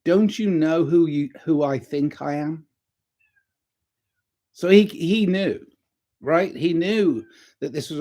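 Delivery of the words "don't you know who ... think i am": quoted catchphrase. Retold or imitated. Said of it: "that's the saying".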